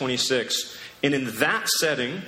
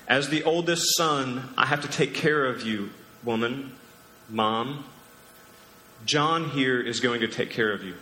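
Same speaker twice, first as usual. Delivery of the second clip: endearing. Retold or imitated. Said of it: "there's an endearing nature to it".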